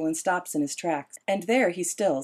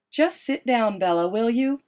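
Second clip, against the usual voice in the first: sharp, raised exasperated plea; Esme, fed up, telling Bella to sit; 5 semitones higher, 4 dB louder than usual. A narrator's reading. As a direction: snap at her to just sit. Exasperated Esme voiced in story.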